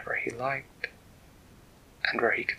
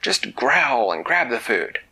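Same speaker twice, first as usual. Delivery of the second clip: scolding dragon parents; 2 semitones higher, 5 dB louder than usual. Acted. Dragon parents scolding Edvard at the table, mock stern scold. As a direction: tell him off at the dinner table. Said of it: "his mother and father would say at the table".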